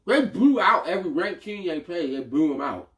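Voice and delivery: talking with food in his mouth; speaking while chewing food; mouth full. Real, not acted. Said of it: "stop talking with food in your mouth".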